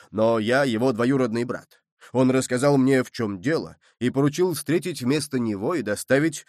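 a sailor faking an Irish brogue; Irish accent. Acted. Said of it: "имитируя ирландский акцент".

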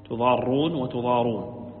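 first تضارون with doubled r, second with single r; doubled, then light r. Shown as a demonstration. Teacher compares two readings, doubled then single r in تضارون. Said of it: "بالتشديد وبالتخفيف".

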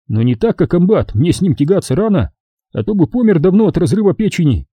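high, mocking report; sarcastic. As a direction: scorn the drinking bosses.

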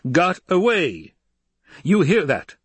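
high, loud, drawn-out exclamation; outraged Emperor. Acted. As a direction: throw it out in imperial indignation. Emperor rages over escaped men.

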